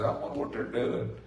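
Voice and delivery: whispered musing to yourself; idle wondering. Retold or imitated. Someone in a parking lot, whispering idle curiosity. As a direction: breathe it like a curious aside. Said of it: "and you'll say".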